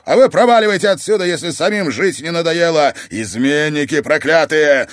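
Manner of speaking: fast, loud, high hate; hateful shout. Acted. Oscar curses the traitors, hateful shout. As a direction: drive them off with hatred. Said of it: "с ненавистью сказал Оскар".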